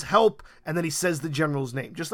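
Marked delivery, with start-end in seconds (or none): 0.0-0.4 robot's urgent cry for help. Retold or imitated. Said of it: "but he says".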